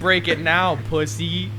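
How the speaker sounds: mock taunt.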